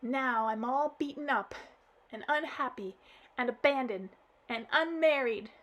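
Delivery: acted child crying to granddad; blubbering girl. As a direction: blurt it out blubbering. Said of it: "all the while laminating".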